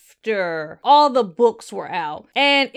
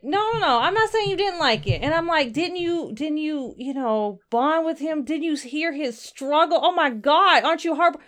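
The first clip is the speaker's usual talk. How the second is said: higher, earnest pleading; a fan pleading, voice pitched up; 4 semitones higher than usual. Retold or imitated. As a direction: beg her to feel something for Harry. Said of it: "I was like".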